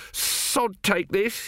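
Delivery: nervous workman throws in the towel; fed-up builder. Acted. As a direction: drag it out in disgust. 2A gives up.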